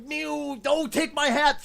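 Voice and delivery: high, loud cartoonish squeak; silly high cartoon voice; mock Mario voice. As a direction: ham up a video game character.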